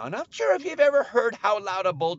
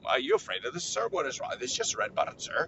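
low-pitched store clerk; puzzled cashier; 4 semitones lower than usual. Retold or imitated. Lady at the register questions customer, low and puzzled.

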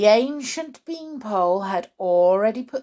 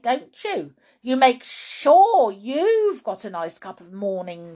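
mildly raised, emphatic scolding; accusing grandma; 5 dB louder than usual. Acted. Grandma scolds George for keeping tea to himself, indignant. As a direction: lay the blame on with heavy stress.

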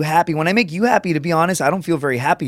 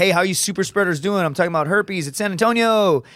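higher-pitched re-enacted stand-up greeting; comic's stage opener; 5 semitones higher than usual. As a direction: lightly act out working a club crowd. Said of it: "I also opened up with".

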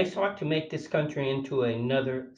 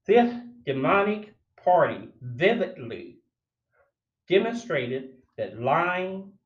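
reading the essay aloud like a sermon; declaiming the essay. Real, not acted. Reading his essay commentary aloud, declaiming. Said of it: "I'm still reading from the essay".

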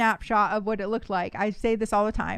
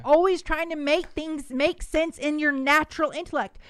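exasperated Jesus; 4 semitones higher than usual. Retold or imitated. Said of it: "He was like".

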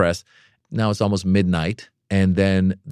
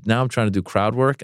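ordinary talk

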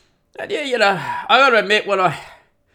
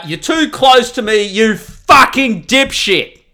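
mock road rage sign; 5 semitones higher, 4 dB louder, slower than usual. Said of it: "So the guy behind you".

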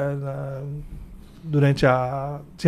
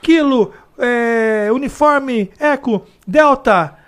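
radio code recital; 10 semitones higher, 6 dB louder, slower than usual. Retold or imitated. Rattling off radio alphabet.

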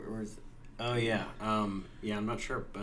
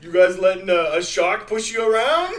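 mock mobster taunt; 6 semitones higher, 7 dB louder than usual.

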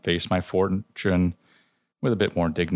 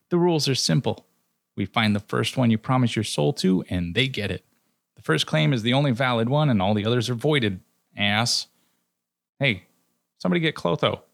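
higher, smug trickster lecturing; smirking Loki; 6 semitones higher than usual. Acted. Loki gloating to the dead man about first claims, smug. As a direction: lay down the rules with a smirk. Loki smugly explains the rules.

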